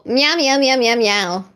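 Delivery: cat meows. Pretend. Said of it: "That's my raid message".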